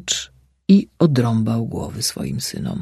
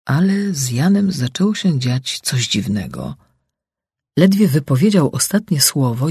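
ordinary delivery

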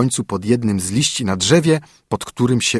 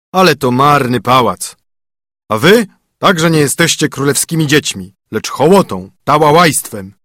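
scornful bear; 3 semitones higher, 5 dB louder than usual. A narrator's reading. Bear mocks the chicks as rabble, scornful and loud. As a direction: bear sneering, louder, at the nestlings.

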